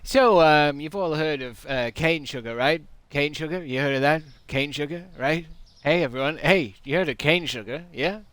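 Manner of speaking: hammed-up stand-up working the crowd; lightly put-on comedian, pushing for a response; stand-up comic. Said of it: "you've got your stand-up act".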